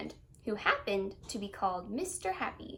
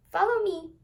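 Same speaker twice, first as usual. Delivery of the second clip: firm command; 7 semitones higher, 6 dB louder than usual. Acted. Happy leads him on.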